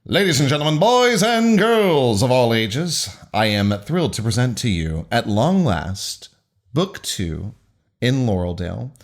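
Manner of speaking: showman's grand introduction with drawn-out words; big stretched opening, then measured title reveal; announcer voice. Acted. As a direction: announce it like a ringmaster presenting the main act. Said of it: "so proud of my announcer voice".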